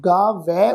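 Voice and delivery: ਗਾ ਵੈ with a wide, full ai; open ai vowel. Shown as a demonstration. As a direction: open the mouth fully on ਵੈ. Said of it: "ਉਚਾਰਨ ਕਰਾਂਗੇ ਜੀ". (ਗਾ ਵੈ ਵਿੱਚ ਦੁਲਾਵਾਂ ਦਾ ਪੂਰਾ ਉਚਾਰਨ)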